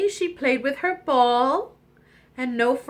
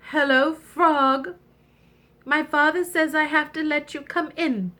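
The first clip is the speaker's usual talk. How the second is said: reluctant princess; 6 semitones higher than usual. Acted.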